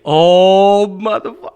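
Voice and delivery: loud retold fighting words; retold outraged challenge. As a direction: act insulted, ready to fight. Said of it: "I'm like".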